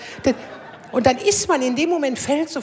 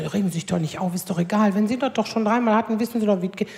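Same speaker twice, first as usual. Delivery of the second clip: soothing nurse; faster than usual. Retold or imitated. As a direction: reassure her gently. Nurse calming the patient.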